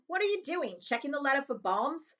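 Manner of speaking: lightly voiced smug uncle; mocking joke. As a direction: chuckle at your own wit.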